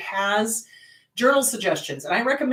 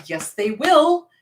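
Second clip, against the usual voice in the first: emphatic, insistent reply; no-nonsense counsellor telling it straight; firm insistence. Retold or imitated. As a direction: set a doubting client straight firmly. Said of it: "I look at them and I go".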